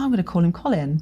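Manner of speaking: ordinary delivery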